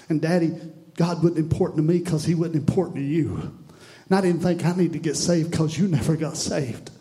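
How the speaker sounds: rising from pleading to a full anguished cry; anguished son building to a shout. Acted. Son in hell crying out to his father, building to a shout. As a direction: let the son's regret swell until he's shouting.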